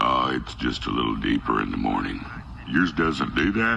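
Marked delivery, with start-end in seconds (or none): 0.0-2.2 deep truck-ad narrator; commercial narrator voice. Acted. Explaining his morning voice to a friend, deep narrator voice. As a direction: speak low like a car commercial narrator. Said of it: "You sound like you're narrating a Ford commercial".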